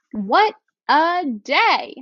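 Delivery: excited exclamation. Shown as a demonstration. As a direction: exclaim it like a thrilled fan. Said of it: "change my voice to match as I read".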